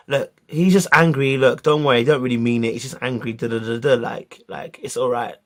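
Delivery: gentle reassurance. Retold or imitated. Retold consoling of crying teacher.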